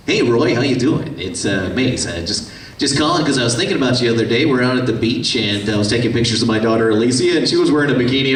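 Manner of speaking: put-on breezy and fast, like phoning an old buddy; Maes Hughes voice. Shown as a demonstration. Father calling his friend Roy to brag, lightly voiced and brisk. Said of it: "his voice is a little bit more like this".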